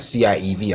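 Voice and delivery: "C I E V" with no T sound before the E; Cockney "C I E V", T left out; Cockney dropped T. Shown as a demonstration. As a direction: say "C I E V", the T of TV swallowed. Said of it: "I don't actually pronunciate the T".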